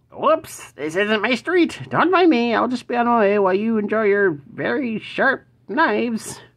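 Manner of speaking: very high, squeaky, fast goblin voice. Reading a card's flavor text aloud while going through cards: goblin voice. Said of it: "That's my goblin voice".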